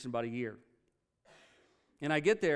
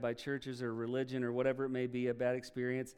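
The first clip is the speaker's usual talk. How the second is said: closing prayer; 2 semitones lower than usual. Acted. Pastor leads closing prayer.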